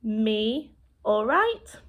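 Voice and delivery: very slow, drawn-out demonstration; just all right. Shown as a demonstration. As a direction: spell out each sign slowly, ending on a rise. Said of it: "you're just feeling all right".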